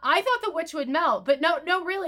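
high, fast innocent apology; mock apology. The speaker playing innocent, high mock apology.

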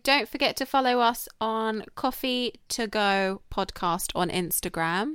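slow, drawn-out outro plug; measured podcast outro; podcast sign-off. Real, not acted. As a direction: wrap up the show, stretching the words slowly.

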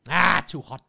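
mock-alarmed Asian-accented masseuse; imitated Asian accent. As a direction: exclaim it in a put-on Asian accent. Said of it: "there was an Asian lady".

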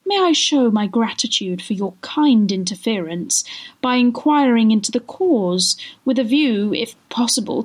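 mildly plaintive polite appeal. Acted. Lady inquiring into Jingle's sorrow, mildly plaintive. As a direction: ask delicately, with a touch of pleading. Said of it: "said the lady in a plaintive voice".

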